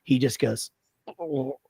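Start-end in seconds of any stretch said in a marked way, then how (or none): 1.2-1.6 retold dog gag. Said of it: "like this, like he's gonna puke".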